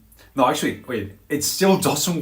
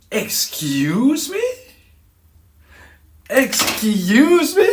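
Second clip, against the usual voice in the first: hugely stretched, high, loud disbelief; very dramatic indignation; 12 semitones higher, 9 dB louder, much slower than usual. Retold or imitated. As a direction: drag it out, soaring up in outrage. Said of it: "say it in a very dramatic way".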